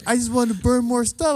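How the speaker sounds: high-pitched comic pleading; whiny excuse. Acted. Cousin defending himself to host, mock pleading.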